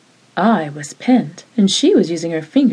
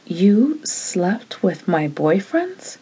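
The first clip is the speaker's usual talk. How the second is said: icy; 3 dB quieter, much slower than usual. Acted. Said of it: "There was ice in her voice".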